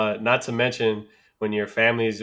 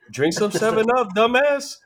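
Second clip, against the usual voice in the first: higher, mock-scolding grandpa retort; mock gruff grandpa; 10 semitones higher than usual. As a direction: toss it off like a grumpy grandpa. Grandpa answers the kid.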